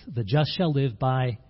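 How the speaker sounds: slow "The just shall live by", stopping short of the stressed word; pause before FAITH. Shown as a demonstration. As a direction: leave "by" hanging so that faith gets the emphasis. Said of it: "with the emphasis on faith".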